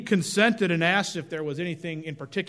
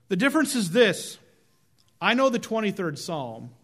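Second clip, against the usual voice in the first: voice shaking; 2 semitones lower than usual. Acted. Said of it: "His voice shook".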